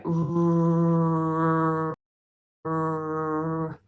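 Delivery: r held long without stopping; sustained r. Shown as a demonstration. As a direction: let the air flow on a long r. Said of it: "are continuants".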